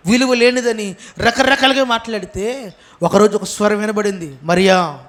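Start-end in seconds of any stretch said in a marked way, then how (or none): 4.4-5.0 low, tender call of her name; loving call. Acted. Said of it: "చాలా ప్రేమగా ఉంది".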